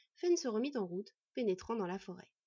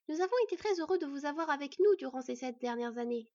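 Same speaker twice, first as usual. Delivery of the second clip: higher, heartfelt farewell; with emotion; 5 semitones higher, 5 dB louder than usual. Acted. Hostess bidding her guests goodbye, with emotion. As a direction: say it with feeling. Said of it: "déclara Beyla avec émotion".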